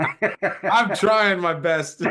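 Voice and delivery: high, loud and drawn out through laughter; laughing protest. Real, not acted. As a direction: plead helplessly while cracking up. Laughing at own failed attempt.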